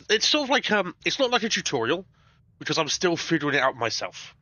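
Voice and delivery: talking with a nose plugged; tissue up one nostril. Real, not acted. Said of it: "I can just stuff pieces of tissue up my nose".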